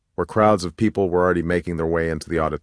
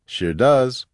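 higher, lightly amused agreement; with a laugh; 5 semitones higher, 3 dB louder than usual. A narrator's reading. Mona agreeing with her friend, amused. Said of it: "Mona said with a laugh".

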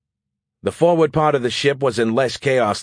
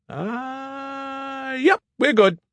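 relieved squeal; 3 dB quieter, much slower than usual. A narrator's reading. Skippy checks then relieved.

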